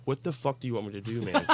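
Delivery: exasperated retort, held in; retold snap. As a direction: snap without raising your voice. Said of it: "I kinda snapped, and I just said".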